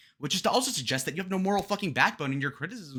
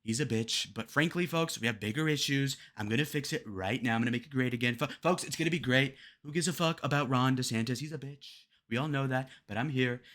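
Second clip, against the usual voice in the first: Trump; 3 semitones lower than usual. Retold or imitated. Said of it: "If Trump were there".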